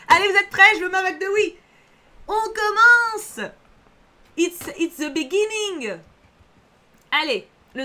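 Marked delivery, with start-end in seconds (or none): 0.1-1.5 louder, higher, laughing call to the chat; rally the audience with a laugh; laughing hype call. Real, not acted. Streamer rallying her chat before the game starts, laughing loud hype. 2.3-6.0 slow, higher, drawn-out grand announcement; mock announcer. Streamer launching the game for her viewers, slow hammed-up announcer.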